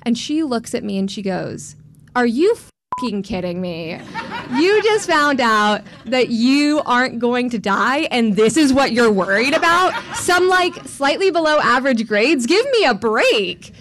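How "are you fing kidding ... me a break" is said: incredulous mom. Retold or imitated. Mom scolding her daughter over worrying about grades, exasperated. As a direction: scold like a mother who can't believe it.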